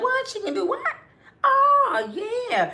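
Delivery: very high, drawn-out, dazzled, greedy, eager delight. Woman retelling her mother's reaction to her staying in LA, imitating her mother. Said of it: "She just seen dollar signs like".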